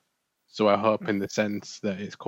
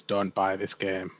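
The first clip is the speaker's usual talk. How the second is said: slow and a touch softer, flatly warning people off; deadpan developer warning; 4 dB quieter, slower than usual. Retold or imitated. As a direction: say it like a weary developer begging buyers to stay away. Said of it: "the official word from the developers is".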